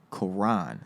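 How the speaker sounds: Quran alone, stressed on the second syllable; name pronunciation. Shown as a demonstration. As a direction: set out Quran as ko-RAHN. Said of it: "How you pronounce my name is Quran".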